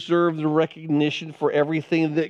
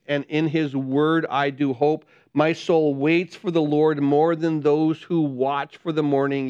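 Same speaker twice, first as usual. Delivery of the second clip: scripture reading; 2 semitones lower than usual. Acted. Reads psalm aloud slowly.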